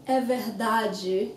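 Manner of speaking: slow verdade ending in jee; soft-G ending. Shown as a demonstration. Teacher points out the sound again, slow verdade with jee. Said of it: "you have the same G sound again".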